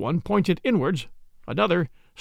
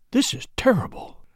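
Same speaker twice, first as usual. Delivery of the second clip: hushed whisper, almost no voice; low voice; 7 semitones higher than usual. Acted. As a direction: breathe it out in shock. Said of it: "in a low voice".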